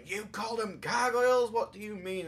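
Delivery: a mild mock yell at the host; mild mock outrage. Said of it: "is screaming at me going".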